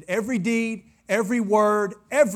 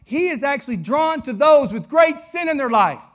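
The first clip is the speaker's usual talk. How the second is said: loud, high preacher's shout; shouted preaching; 7 semitones higher, 8 dB louder than usual. Acted. Pastor to congregation, shouting the climax. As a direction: drive the point home to the room.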